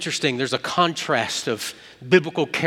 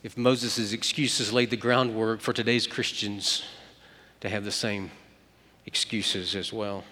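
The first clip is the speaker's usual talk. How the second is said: reflective; 4 semitones lower, 5 dB quieter than usual. Real, not acted. Reflective slowdown in sermon.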